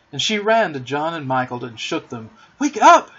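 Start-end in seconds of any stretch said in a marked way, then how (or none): 2.6-3.2 high, loud wake-up call; urgent, excited shout; crying out. A narrator's reading. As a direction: shout to rouse sleepers. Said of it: "she cried".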